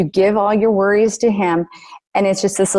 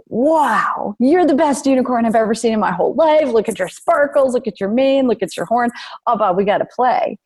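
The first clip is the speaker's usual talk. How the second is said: high, gushing fairy voice, bubbling with delight; excited fairy; 4 semitones higher than usual. Retold or imitated. Fairy gushing to Bob about his sparkles, high and delighted. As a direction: gush over Bob like a thrilled fairy. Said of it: "she looks at Bob and she's like".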